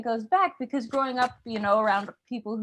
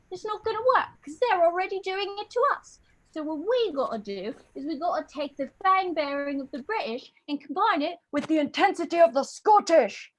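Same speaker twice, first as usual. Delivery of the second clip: put-on New York accent built out of British, climbing higher; British-tinged New Yorker growing more intense; mock New York accent; 5 semitones higher than usual. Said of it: "that's how you got the New York accent".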